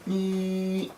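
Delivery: soft high squeak of tension; nervous high squeak. Retold or imitated. Reversing the car, a soft nervous squeak. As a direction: squeak like you're bracing for a mistake. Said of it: "I'm like".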